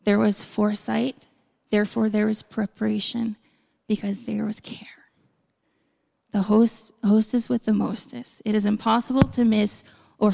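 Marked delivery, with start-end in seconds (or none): 3.9-4.9 whispered close; soft whisper; soft emphasis. Acted. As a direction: drop to a hush on care. Soft closing point.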